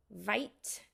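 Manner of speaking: "White" said with a V, as "Vite"; Russian-accented "White", starting on a V sound. Shown as a demonstration. Streamer showing an accent rule, "White" said as "Vite". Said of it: "W is pronounced V".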